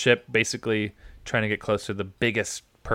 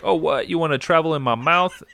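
voicing the whale; 7 semitones higher, 4 dB louder than usual. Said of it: "they don't have a voice".

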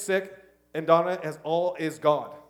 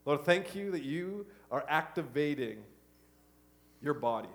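pastoral prayer; 2 semitones lower than usual. Acted. Pastor praying over the congregation, earnest. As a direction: pray it steadily over the room.

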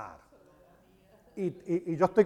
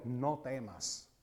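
reassuring; 3 dB louder, slower than usual. Retold or imitated. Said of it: "el Señor le dijo".

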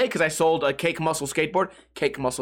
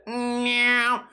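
a higher, cute imitated meow of the printer; 5 semitones higher than usual. Mimicking the new printer to viewers, playful meow. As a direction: purr out the new printer's happy noise. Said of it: "This motherfucker said".

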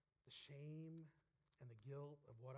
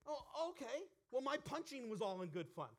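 loud, much higher mocking comeback; sarcastic shout; 9 semitones higher, 10 dB louder than usual. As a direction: throw his excuse right back at him. Sarcastic retort to the pastor.

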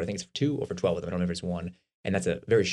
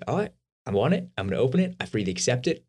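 eager; 5 semitones higher than usual. Retold or imitated. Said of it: "this is a gift you say".

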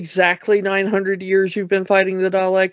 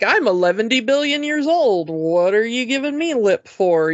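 indignant Doctor; 4 semitones higher than usual. Acted. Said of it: "when the Doctor is just like".

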